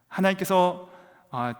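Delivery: ordinary talk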